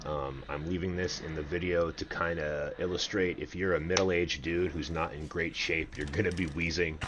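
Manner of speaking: slightly winded speech; talking while still catching breath. Real, not acted. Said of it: "Please excuse the heavy breathing".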